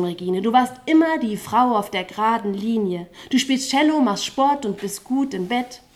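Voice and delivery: rhythmic, driving spoken-word delivery with a pulsing chorus; slam poetry recital. Acted. Poet on stage reciting to the slam audience, rhythmic spoken word. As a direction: perform it like a poetry slam, riding the beat.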